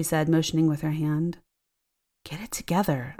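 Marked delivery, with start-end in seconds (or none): 2.2-3.1 chiding. Acted. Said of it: "I chided myself".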